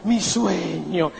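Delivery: voz cambiada, alargando mi sueño despacio; remedo soñador exagerado. Retold or imitated. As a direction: imita al upline que sueña a lo grande. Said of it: "me decía". (imitando al upline soñador con voz cambiada)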